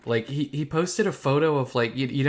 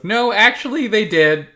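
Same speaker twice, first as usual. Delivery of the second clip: mock insistent guy; 9 semitones higher, 8 dB louder than usual. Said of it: "he was just like".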